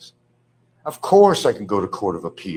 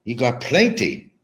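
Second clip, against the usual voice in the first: imitated Filipino accent, punchy and raised; 3 semitones higher, 4 dB louder than usual. Ex-girlfriend telling him about money, imitated Filipino accent. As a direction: mimic a Filipino woman's accent. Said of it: "in her accent".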